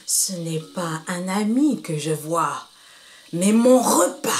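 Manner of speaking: a hungry leopard eyeing his meal; menacing leopard. Acted. Leopard speaks to monkey.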